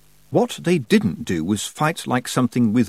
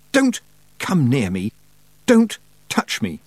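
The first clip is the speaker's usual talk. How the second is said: slow cry rising sharply in pitch; screamed; 3 semitones higher than usual. A narrator's reading. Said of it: "she screamed".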